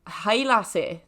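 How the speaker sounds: attempted Scottish accent. Shown as a demonstration. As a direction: have a light go at a Scottish accent. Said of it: "I try and do a Scottish accent".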